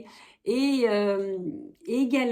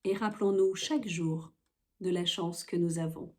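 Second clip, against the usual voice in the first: measured poetry recitation with pauses between lines; earnest, unhurried reading of a solidarity poem. Acted. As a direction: recite it line by line, lingering at the breaks. Reads a poem aloud.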